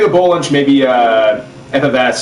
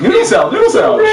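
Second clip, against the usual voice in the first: yelled out, pitch shooting higher on the second; yelling; 3 dB louder, faster than usual. Acted. Joking with friends, yells the food name. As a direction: bellow it like a street vendor. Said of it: "What is this guy yelling at noodle salad for?".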